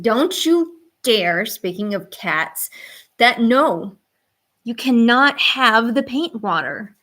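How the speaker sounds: firm, loud warning to the cat; drawn-out don't-you-dare at a cat; scolding the cat. Real, not acted. Streamer warns cat off paint water, firm and loud.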